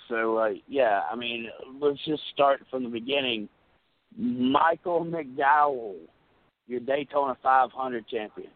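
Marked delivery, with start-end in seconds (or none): 4.2-8.5 slow, grand winner announcement; announcer voice. Acted. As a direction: call it like a race announcer.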